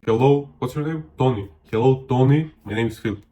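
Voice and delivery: hello that pauses for their name; ask, then repeat the name back with emphasis; interested, unrushed introduction; attentive greeting. Shown as a demonstration. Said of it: "be like".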